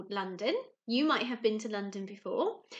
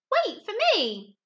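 high, loud plea; calling after; 9 semitones higher, 9 dB louder, slower than usual. Acted. Little blue fish begging the rainbow fish to wait, high loud plea. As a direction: shout it as he swims away. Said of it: "he called".

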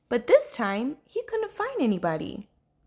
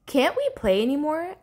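higher, mildly plaintive question; sad; 5 semitones higher than usual. Acted. Little Blue after the game broke up, gently sad. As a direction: ask with a touch of hurt. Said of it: "asked Little Blue sadly".

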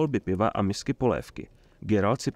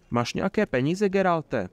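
higher-pitched, hopeful question; 7 semitones higher than usual. A narrator's reading. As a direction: ask with hope in the voice. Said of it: "zeptal se s nadějí v hlase". (s nadějí v hlase)

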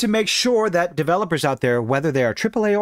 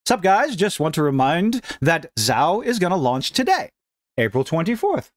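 attempted Brazilian accent. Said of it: "I wonder if I could do his accent".

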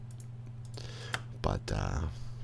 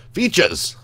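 high excited exclamation; 12 semitones higher, 6 dB louder than usual. Real, not acted. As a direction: blurt it out with glee. Excited at the menu.

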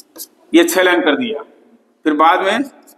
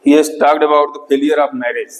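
slow dictation; 2 semitones lower, much slower than usual. Shown as a demonstration. Teacher dictating a summary.

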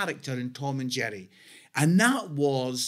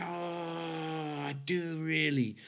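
insincere reassurance; 9 dB quieter, slower than usual. Retold or imitated. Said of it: "I'm like".

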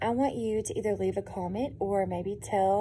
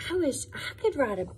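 wistful mouse; 4 dB quieter than usual. Acted.

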